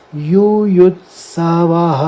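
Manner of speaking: युयुत्सवः very slow, ending in ह; युयुत्सवः with its final ह sounded; visarga sounded. Shown as a demonstration. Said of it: "वह पढ़ा ही जाएगा".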